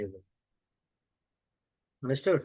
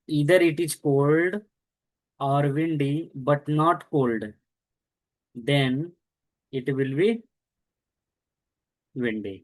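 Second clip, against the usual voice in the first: slow teaching read; much slower than usual. Shown as a demonstration. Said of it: "teacher reads the condition slowly".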